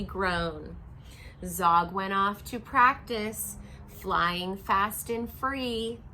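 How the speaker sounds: reading a picture book to a class; steady, rhythmic storybook read; story narration. A narrator's reading. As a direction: read aloud to children.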